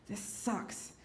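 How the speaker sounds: soft, breathless sigh of words; drained and defeated, under your breath; worn-out murmur; tired whisper. Retold or imitated. Tired after fighting.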